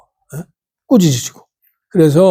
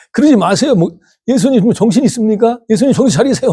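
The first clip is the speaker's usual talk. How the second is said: tug at him in hammed-up alarm; Peter's protest; 6 semitones higher than usual. Peter holding Jesus back, raised pleading protest.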